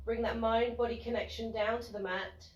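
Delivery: soft, unhurried yoga teacher voice with pauses; guided relaxation. Real, not acted. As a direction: gently guide them into noticing body and breath. Guides relaxation lying on mat.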